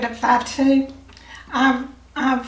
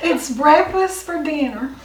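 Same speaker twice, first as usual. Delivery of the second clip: laughing; 4 semitones higher, 4 dB louder than usual. Real, not acted. Laughing over the odd dish name.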